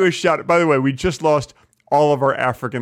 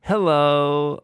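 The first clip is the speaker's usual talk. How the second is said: old man impression, different timbre; Abe Vigoda voice. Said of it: "Can you talk like him for a second?".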